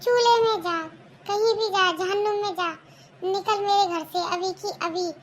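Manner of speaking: furious mother-in-law yelling at the bride to leave; angry scolding. Acted. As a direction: throw her out of the house in a rage. Mother-in-law throws out daughter-in-law.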